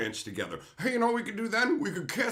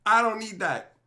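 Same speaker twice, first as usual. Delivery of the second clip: imitating his wife; 7 semitones higher, 4 dB louder than usual. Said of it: "She's like".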